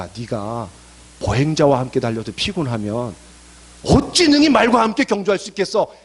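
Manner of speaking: starts low, builds to a forceful challenge; verse turned into a talking-to; blunt challenge. Acted. Verse reworded as God's challenge.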